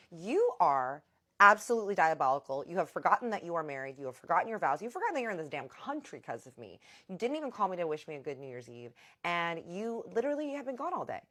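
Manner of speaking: loud, punched accusations; livid. Retold or imitated. Wife on the phone scolding her husband, loud and livid. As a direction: tear into him, fully livid. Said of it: "I am absolutely livid".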